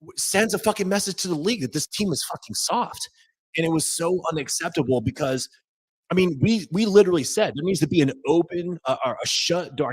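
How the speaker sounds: worked-up rant. Real, not acted. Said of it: "I can't even talk right now".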